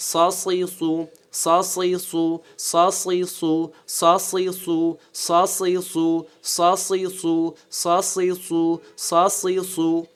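সসিসু with a thick s on each syllable; heavy, thick s. Shown as a demonstration. Teacher repeating sad with vowels, thick sound. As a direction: drill সসিসু slowly with a full, heavy s. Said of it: "এটা মোটা".

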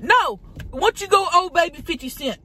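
mocking. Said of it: "And I said".

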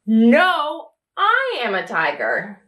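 a big tiger insisting he is a tiger; proud tiger. Acted. Tiger character in picture book.

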